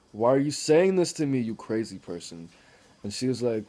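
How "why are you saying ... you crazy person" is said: higher and louder, exasperated; imitating his own exasperated outburst; mock outraged yell. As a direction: blurt it out, fed up with small talk. Retold outburst at small talk.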